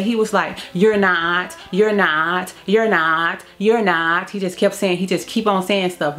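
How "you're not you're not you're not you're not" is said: evenly repeated denial, lightly acted; imitated repeating. Son denying his mother over and over, imitated repetition. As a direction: lightly mimic someone stuck on one phrase.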